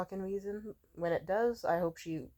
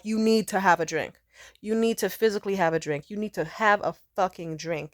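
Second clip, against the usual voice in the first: demanding; 6 dB louder than usual. Retold or imitated. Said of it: "they start just being like".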